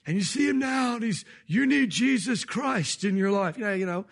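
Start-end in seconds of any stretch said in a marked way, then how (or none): 1.5-3.6 put-on slow, older preacher voice, lightly done; Billy Graham impression. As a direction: imitate an aging evangelist drawing out each word. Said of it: "he's got that older voice".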